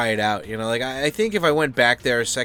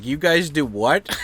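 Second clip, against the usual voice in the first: incredulous; 3 semitones higher, slower than usual. Retold or imitated. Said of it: "I was like".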